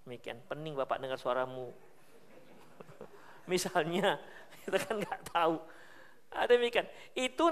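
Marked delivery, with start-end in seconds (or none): 0.5-1.7 put-on softer, coaxing grown-up calming a child; soothing hush. Bystander hushing a crying child, soft and coaxing. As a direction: hush the kid gently, handing over money.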